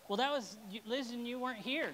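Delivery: imitating a congregant passing the blame; mock blame. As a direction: play the finger-pointer, loud and high. Voicing someone blaming others.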